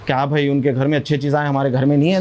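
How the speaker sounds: low-pitched mock grumbling; mild complaint. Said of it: "शिकायत नहीं करना". (हल्की शिकायत की नकल, नीची आवाज़ में)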